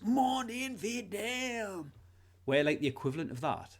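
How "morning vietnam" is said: Robin Williams impression. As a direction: belt it like a radio host. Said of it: "that guy, what do you call him, out of Mork and Mindy".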